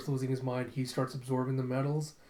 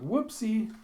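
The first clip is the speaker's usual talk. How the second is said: high-pitched little exclamation; playful oops; 9 semitones higher, 3 dB louder than usual. Retold or imitated. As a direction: exclaim as if bumping into someone. Acted clumsy bump into someone.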